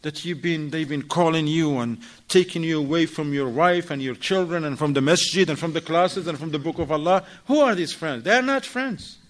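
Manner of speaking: wife questioning husband about his friends, suspicious; confronting. Retold or imitated. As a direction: demand answers from him. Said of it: "She gonna say".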